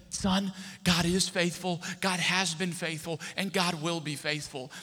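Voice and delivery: slow, measured assurance; fatherly reassurance. Retold or imitated. Father answers worried son's call, with slow, steady reassurance.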